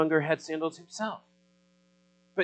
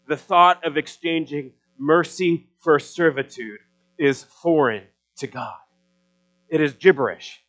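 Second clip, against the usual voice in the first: soapbox orator; 4 dB louder than usual. Acted. Preaching builds in force.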